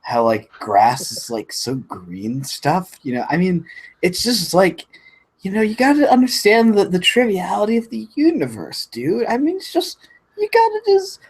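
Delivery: stoner voice. Pretend. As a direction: play a spaced-out stoner dude. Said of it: "something funny to say in a stoner voice".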